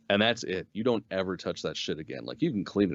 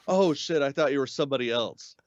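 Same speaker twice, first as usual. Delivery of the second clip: higher-pitched imitation of someone freaking out; mock freak-out; 7 semitones higher than usual. Prisoner backpedaling as Boba Fett comes down, mock panic. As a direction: play a startled panic, half in jest. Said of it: "he freaks out".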